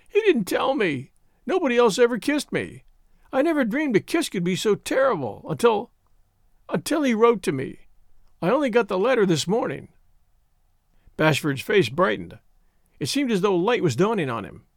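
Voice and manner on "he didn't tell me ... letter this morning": put-on high, plaintive young woman's outpouring; mildly tearful. A narrator's reading. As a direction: pour it out in a raised, upset voice. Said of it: "Loretta was crying".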